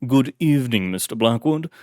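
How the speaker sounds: put-on light, polished British butler accent; a courteous British butler greeting; distinguished British accent. Elderly butler greeting his old master in British accent. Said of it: "in a distinguished British accent".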